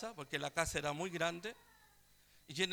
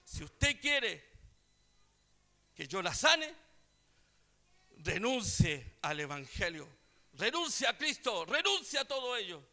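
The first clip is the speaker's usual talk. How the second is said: demanding; 4 dB louder than usual. Retold or imitated. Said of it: "y le dice así".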